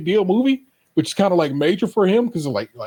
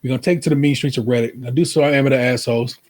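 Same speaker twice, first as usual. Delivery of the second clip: host hype; 3 semitones lower, faster than usual. Acted. Show segment announcement.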